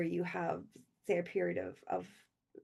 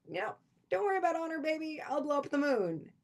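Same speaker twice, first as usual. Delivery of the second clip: doting villain; 7 semitones higher than usual. Retold or imitated. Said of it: "They're like".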